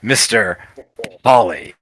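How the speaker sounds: drawn-out swooping emcee voice; grand, lilting stage announcer; gnome showman. Acted. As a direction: introduce the host with theatrical flourish. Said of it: "points to the stage and says".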